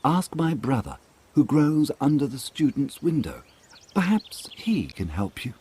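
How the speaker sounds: second rose tree. A narrator's reading. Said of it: "he answered".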